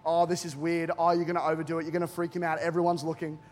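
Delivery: low, muted voice of doubt; nagging inner voice. Retold or imitated. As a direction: murmur the worries like a voice in your head. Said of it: "And the voice, you know the one".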